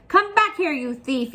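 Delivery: high, loud shout on come back here; angry giant yell. Acted. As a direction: bellow after the fleeing boy. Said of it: "yelled the giant".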